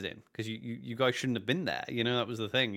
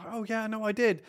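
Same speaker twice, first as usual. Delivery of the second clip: breezy retold reply; 10 semitones higher than usual. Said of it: "And you".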